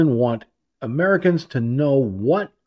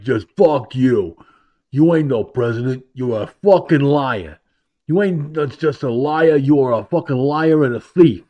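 mock heckler taunt. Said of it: "looking in his face going".

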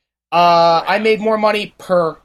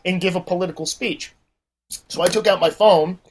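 ordinary talk

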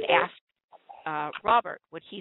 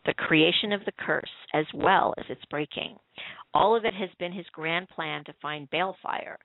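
measured reading of a written episode recap; read-aloud commentary. Acted. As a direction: read your written review aloud, evenly phrased. Reads own written commentary aloud.

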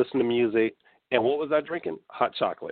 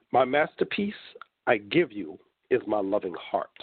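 poem recitation. Acted. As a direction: read it like a tender love letter. Reads own love poem aloud.

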